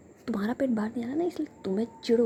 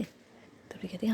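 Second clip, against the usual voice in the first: ordinary delivery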